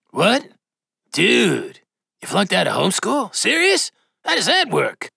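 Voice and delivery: high, disbelieving bro voice; can't believe what he's hearing; incredulous. A narrator's reading. Apocalypse reacts to Badass flunking out of homeschool, incredulous.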